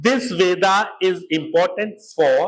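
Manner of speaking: slow and weighty, stressing "this"; teacher stressing a key point, slow; slow emphasis. Shown as a demonstration. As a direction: lean on "important" slowly. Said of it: "very, very important".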